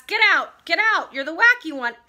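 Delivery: loud, high, forceful order out; teacher's shout. A narrator's reading. Teacher ordering pupil out of class, shouting. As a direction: shout it like a cross storybook teacher. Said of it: "She's shouting at him".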